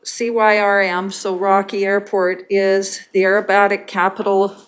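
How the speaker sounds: muffled voice, like through a hand; talking through a covered mouth. Real, not acted. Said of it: "sorry, I know I'm muffled".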